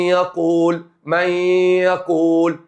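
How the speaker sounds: من يقول with the nun merged into ي and a held nasal hum; nasal merge demo. Shown as a demonstration. Teacher to students: من يقول with ghunna. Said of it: "إدغام بغن".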